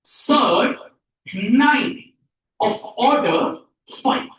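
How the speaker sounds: spaced-out model pronunciation; word-by-word reading. Shown as a demonstration. Teacher answers how to pronounce it, word by word. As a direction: say each part separately for learners to follow. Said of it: "इसको क्या pronounce करेंगे".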